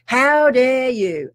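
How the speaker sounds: imagined viewer outrage. Retold or imitated. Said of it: "And you might be going".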